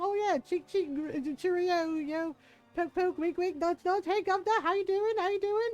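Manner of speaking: high, loud hammed-up Cockney; mock Cockney. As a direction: rattle off Cockney cliches in a put-on voice. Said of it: "like, Cockney".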